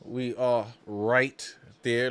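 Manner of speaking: low, drawn-out, word by word; measured, weighty restatement; slow emphasis. Real, not acted. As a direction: spell it out slowly and deliberately. Emphatic repeat while watching game.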